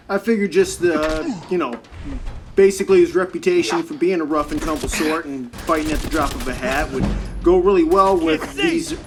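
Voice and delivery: building, loud and worked up; heated rant. Real, not acted. Streamer ranting to chat about the sportswriters, loud and heated. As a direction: rail against the sportswriters.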